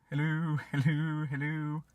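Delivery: slow repeated Hello, fading each time like an echo; mimicking an echo. Shown as a demonstration. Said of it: "it'll go".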